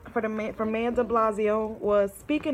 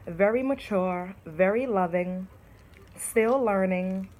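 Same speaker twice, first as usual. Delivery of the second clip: reading her own poem. Shown as a demonstration. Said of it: "I said".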